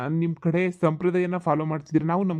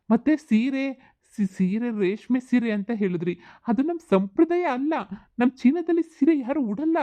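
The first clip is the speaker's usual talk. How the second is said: lightly put-on foreigner, pitched higher; a foreign groom explaining his customs, voice raised; Chinese groom voice; 6 semitones higher than usual.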